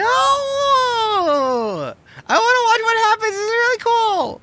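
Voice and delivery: put-on very high whiny kid; whiny child voice. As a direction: protest like a sheltered child. Child character protesting.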